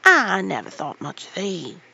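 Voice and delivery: put-on loud, raging old gardener. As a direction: rage at her from the ladder. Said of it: "he raged".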